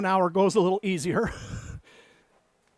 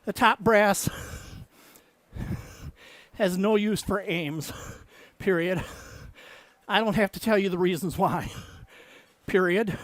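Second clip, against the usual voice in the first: dictating. Acted. Dictating novel text with punctuation.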